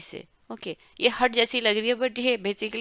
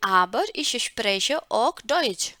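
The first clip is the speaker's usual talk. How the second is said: slow model reading; 3 dB louder, much slower than usual. Shown as a demonstration. Teacher reading Elena's German line slowly to the class. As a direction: read it very slowly, word by word. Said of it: "model reading of Elena's line".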